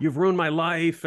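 a retold accusation, slow and high-pitched; imitated angry accusation. Storyteller plays the angry worker blaming her, slow mock outrage. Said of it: "he was just swearing at me".

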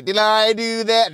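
light nerdy catchphrase voice; quick squeaky-nerd catchphrase; Steve Urkel. Retold or imitated. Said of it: "I was gonna say".

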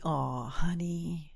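soft, drawn-out pitying coo; hushed, patronizing sigh of sympathy; condescending attorney. Retold or imitated. Female attorney to unhappy client, condescending.

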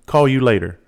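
scornful mimicry of a careless dad; mocking repeat. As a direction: throw his words back at him. Mocking dad's words in rant.

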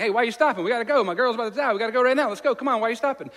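high, loud, panicked hurry-up; desperate father yelling at Jesus to hurry; frantic urging. Retold or imitated.

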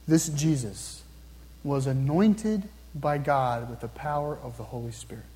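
deliberate, low phrases with pauses; slow repeat. Real, not acted. Preacher repeating Peter's words to the congregation, slow and measured. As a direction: repeat it slowly, phrase by phrase, quietly. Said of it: "I'm gonna repeat them again slowly".

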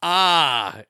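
loud, puzzled read of a one-word message; read-out exclamation. Acted. Host reading a listener's cryptic one-word comment, exclaimed. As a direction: blurt out the written exclamation. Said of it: "I don't know how to read this one".

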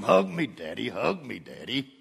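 imitating daughters. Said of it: "they'll come up and hug me".

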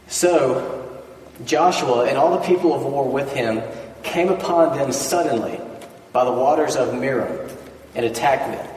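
measured Bible reading to the congregation; scripture reading. Acted. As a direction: lay the verses out steadily, like a lectern reading. Reads scripture aloud.

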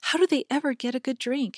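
a hint of a young girl's pity for the sheep; little girl's tender cry for the animals; little girl exclaiming. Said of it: "exclaimed one of the two little maids".

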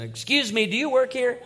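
polite customer. Retold or imitated. Stranger asking in a store.

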